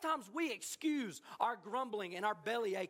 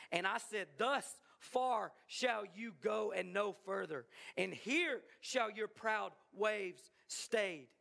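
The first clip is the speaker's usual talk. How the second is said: slow, solemn scripture reading; a preacher reading God's speech to Job, slow and grave; God's words read; 3 semitones lower than usual. Acted. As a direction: read the verses weightily and unhurried. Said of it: "And God says this".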